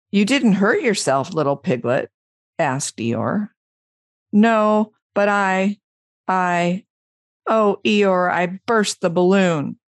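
lively storybook reading with rising questions; story read aloud. Acted. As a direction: read the animals' dialogue out with lilting expression.

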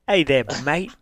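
lightly put-on Australian greeting; mock Australian accent. Co-host joining the bit, mock Australian accent. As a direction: greet like a make-believe Australian. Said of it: "uh, Australian".

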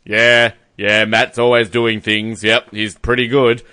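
lightly voiced unimpressed grandad; imitated grandfather. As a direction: play it understated, a hint of a laconic grandfather. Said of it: "The grandfather's just like".

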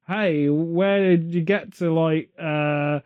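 mock American tourist. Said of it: "you sound more like a farmer from Bristol".

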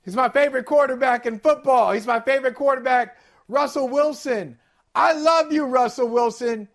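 gushing mock praise; fake apology. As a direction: lay the praise on thick, insincere. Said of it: "that's a jacked up apology right there".

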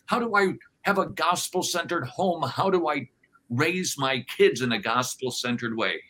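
high, loud, bewildered pleading; baffled churchgoer. Retold or imitated. Churchgoer after the sermon asks the pastor, in high baffled pleading. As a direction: throw up your hands in confusion. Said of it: "and we go".

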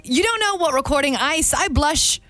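uncertain stab at sounding British; slow down into a clumsy British accent; lightly put-on British accent; attempted British accent. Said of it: "what does British sound like?".

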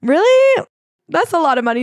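high squeaky "really", then easing down; mock shock. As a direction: balk comically at the price, voice shooting up. Son acted balking at millions.

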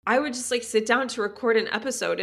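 tearful. Real, not acted. Mom recalling postpartum to listeners, real tears. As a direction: push through the tears. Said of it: "I don't know why I'm crying".

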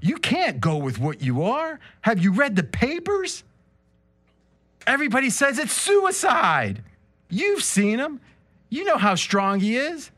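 high, pleading Adrian. Acted. Adrian warning Rocky about the fight, high. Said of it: "I'm stuck with Adrian".

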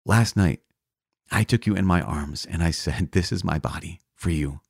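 understated, soft and moved; tearful retold confession. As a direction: retell a tender confession, hushed toward the end. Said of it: "these tears in his eyes".

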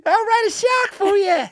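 tiny Aussie in a sky-high voice; absurdly high Australian caricature; squeaky Australian accent. Acted. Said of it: "that's what this guy sounds like".

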